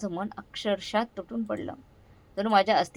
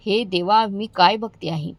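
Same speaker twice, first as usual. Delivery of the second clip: shocked, louder cry; loud shout; 5 dB louder than usual. Acted. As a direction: burst out at what she sees. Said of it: "ती जोरात ओरडली".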